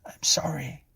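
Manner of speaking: small, high-pitched apology; meek apology. A narrator's reading. Clara apologises to policeman.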